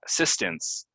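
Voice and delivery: "Assistance" said uh-SIS-tince; unstressed ince ending on "Assistance"; reduced ending. Shown as a demonstration. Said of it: "ince at the end".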